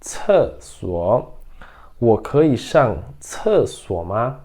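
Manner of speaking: very slow, every syllable clear; slow model reading. Shown as a demonstration. Teacher modelling the sentence for students, very slow. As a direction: read it slowly for students to repeat. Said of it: "Então é".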